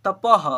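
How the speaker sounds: तपः said loudly as ta-paha; visarga ending. Shown as a demonstration. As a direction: punch out the final aha of तपः. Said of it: "अह है last में". (तपः में विसर्ग का साफ़ उच्चारण)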